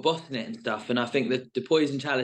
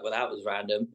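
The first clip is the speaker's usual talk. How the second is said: softer, lower, understated retort; keeping cool; 4 semitones lower, 5 dB quieter than usual. Retold or imitated. Contestant retelling how he kept his cool, understated and cool. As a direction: play it cool, a touch quieter. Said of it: "keep my cool and be like".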